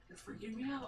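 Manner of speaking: low-voiced imitation of an unnerved onlooker; hushed retold unease. Unnerved man following the silent veiled sisters, hushed imitation. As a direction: say it under your breath, almost voiceless.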